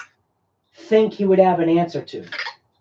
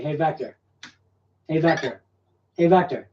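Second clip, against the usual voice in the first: softer, repeating the name over and over; insistent repeated call; 2 semitones lower, 4 dB quieter than usual. Shown as a demonstration. Pestering his Vector robot by repeating its name, soft and insistent. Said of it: "you can say it this way".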